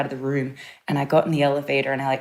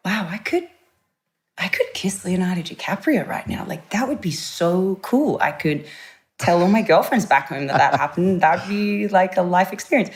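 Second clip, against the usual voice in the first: excited thought; 5 semitones higher than usual. Retold or imitated. Excited inner thought about kissing Leo.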